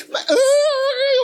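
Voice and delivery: loud, very high wail; mock crying. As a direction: bawl like a hammed-up old man. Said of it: "o velho chorando é feio com força". (choro de velho imitado, alto e agudo)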